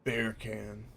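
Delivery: a quiet try at Jamaican beer can; lightly Jamaican accent. Shown as a demonstration. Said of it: "in a Jamaican accent".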